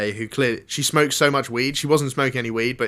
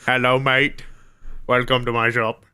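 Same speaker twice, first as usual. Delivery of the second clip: mock Egyptian shopkeeper. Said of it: "He's more Egyptian".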